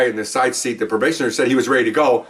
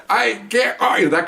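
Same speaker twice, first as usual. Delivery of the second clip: higher, a light hint of deaf speech; deaf speech imitation; 7 semitones higher than usual. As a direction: gently mimic his voice. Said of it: "let me tell you what he sounded like".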